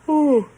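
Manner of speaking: a loud, high yawn that breaks out; big yawn. Real, not acted. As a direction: let a real yawn escape. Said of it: "that's a yawning".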